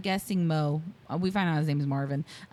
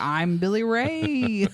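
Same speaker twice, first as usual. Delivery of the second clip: put-on Southern accent; 3 semitones higher, 4 dB louder, much slower than usual. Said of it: "the thickest Southern accent ever".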